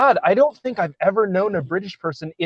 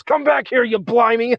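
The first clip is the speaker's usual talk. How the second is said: higher, shouted movie line; movie yell; 7 semitones higher than usual. Retold or imitated. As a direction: quote a cartoonish yell. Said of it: "and he goes".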